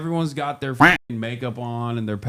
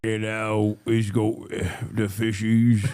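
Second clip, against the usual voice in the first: put-on British accent; 2 semitones lower, slower than usual. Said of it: "like, a British accent".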